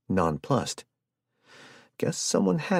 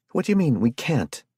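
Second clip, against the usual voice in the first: loud, much higher yell; 8 semitones higher, 5 dB louder than usual. Acted. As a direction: yell it in disbelief. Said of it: "Anna yelled".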